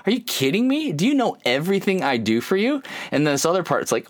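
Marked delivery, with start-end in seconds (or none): 0.1-2.8 higher, mock indignant; a hurt dad venting; mild mock exasperation, pitched up; exasperated. Frustrated father's inner voice.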